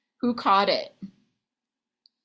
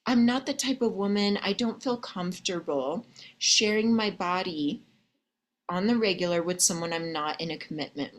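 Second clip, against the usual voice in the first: gentle and sincere. Shown as a demonstration. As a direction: let him down tenderly but firmly. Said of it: "Do you see how I'm talking?".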